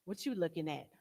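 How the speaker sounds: low, quiet catty mutter; sizing up another woman with a sneer. Retold or imitated. One woman sneering at another, low and catty. Catty women glaring at each other.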